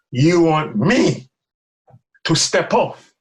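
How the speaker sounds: slow, drawn-out incredulous question; incredulous, with pauses between phrases; disbelief. Retold or imitated. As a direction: spell it out slowly, unable to believe the order. Retells his disbelief at instruction.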